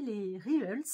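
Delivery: attempted English accent on "Reels". Real, not acted. Vlogger naming an Instagram feature, English accent. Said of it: "j'ai un super accent anglais".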